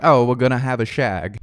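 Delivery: imitating a British girl, light British accent; mock British accent. Host quoting the British girl he talks to, mock British accent. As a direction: toss it off in a playful British accent. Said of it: "they say shag instead of f".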